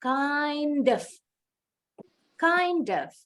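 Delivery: "Kind of" run together as "kaindov", the d gliding into of; teacher drilling the link in "Kind of". Shown as a demonstration. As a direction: join the d of "Kind" straight onto "of". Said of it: "Jadi kita sambung nih bunyi of dengan bunyi D".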